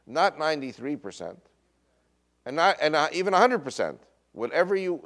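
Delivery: imitating a harsh council laying down terms; building retold ultimatum. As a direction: hammer the demands home, escalating.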